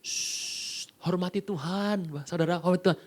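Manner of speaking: soft hushing plea to settle them; shush, then gently ask for reverence; a soft preacher's hush; hushing the crowd. Retold or imitated. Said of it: "cuma bilang gini".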